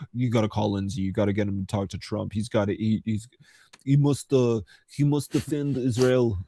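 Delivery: mock Israeli accent. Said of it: "a Israeli accent is so funny".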